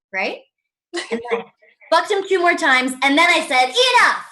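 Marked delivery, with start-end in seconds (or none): 3.9-4.3 loud, high mock refusal; acted outburst. Comic finally refusing her date, mock-exasperated shout. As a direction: cry it out as a punchline, then ease off.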